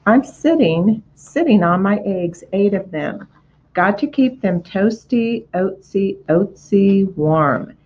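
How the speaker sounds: goose voice repeating words, busy; a hen goose brushing off the pig; fussy mother goose. Acted.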